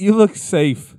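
high, lightly put-on teasing voice; mock crew voice. Crew telling tattooed Brent he looks safe, high mock voice. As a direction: hand off the job with a smirk.

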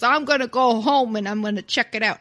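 loud, quick Brooklyn attempt; amateur Brooklyn impression; attempted Brooklyn accent. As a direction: rush it in rough Brooklyn. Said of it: "It's kinda like this. Not really".

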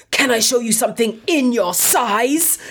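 hammed-up Italian accent, suggestive offer; Italian lech. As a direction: leer it out in a cartoon Italian voice. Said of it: "this is literally how he talks".

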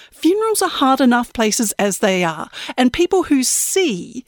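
put-on high, prim little-old-lady voice; a sweet, falsely polite granny. Old woman asking girl for the powder room, prim and high. Granny Death explains herself.

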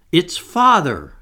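high, loud and drawn-out; astonished exclamation. A narrator's reading. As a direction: exclaim it slowly in surprise. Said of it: "exclaimed Wendy".

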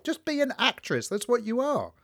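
high, mock-outraged rant; retold outrage. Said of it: "I was angry".

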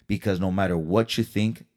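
tender send-off to cheer the viewers up; kind words. Real, not acted. Signing off the vlog to viewers, gently reassuring. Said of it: "leave you with these kind words".

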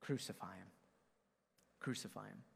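retold shout dropped low and soft. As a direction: say the shout as a low, hushed aside. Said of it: "they shouted all the louder".

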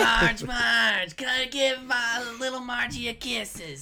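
high, loud cooing mother; doting mother voice. Acted. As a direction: coo over her little one.

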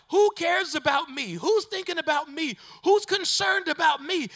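a hurting believer calling out; despairing plea. Acted. Preacher voicing a hurting viewer, rising plea.

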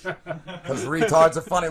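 talking through chuckles; laughing. Real, not acted. Host admitting he laughs at it, chuckling. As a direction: let the laugh break into the words. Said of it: "I'm laughing at it".

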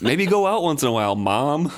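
teasing, laughing. Retold or imitated. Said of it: "laughing joke quote".

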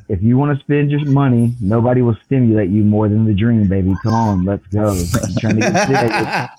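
pushy hard sell pitch; used car salesman. Retold or imitated. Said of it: "that sounded like a used car salesman".

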